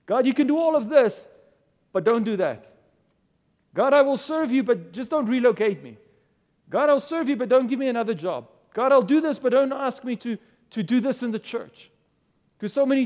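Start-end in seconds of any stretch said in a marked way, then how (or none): 0.1-11.9 higher, louder half-mocking plea; pleading with God. Imitating churchgoers bargaining with God in a higher, louder plea. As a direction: mimic a believer haggling with God.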